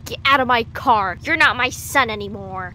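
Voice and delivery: angry mom. Acted. Mom voiced kicking son out.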